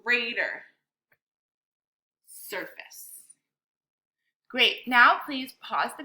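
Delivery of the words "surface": "Surface" whispered softly, no voice; whispered word. Shown as a demonstration. Teacher drilling word gestures with students, whispering "Surface".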